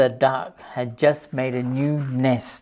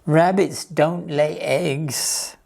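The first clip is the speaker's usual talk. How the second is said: glum; slower than usual. Acted. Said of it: "said Rupert glumly".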